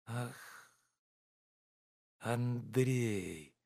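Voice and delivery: soft, tender plea to his friend; tender pleading. A narrator's reading. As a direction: beg gently, close to him. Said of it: "сказал он нежным, умоляющим голосом". (нежно, умоляюще)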